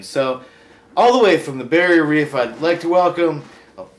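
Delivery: loud, showy host voice; talk show host. Acted. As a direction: bring on the guest with fanfare.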